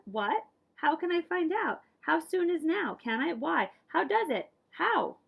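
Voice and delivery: put-on pepper them like a curious kid; a child bursting with questions; eager child barrage. Voicing child's endless questions.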